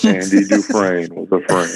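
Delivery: a lightly voiced Morgan Freeman, laughing through it; half-hearted stab at Morgan Freeman. Quoting Shawshank to the co-host, weak laughing impression. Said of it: "that's my Morgan Freeman impression".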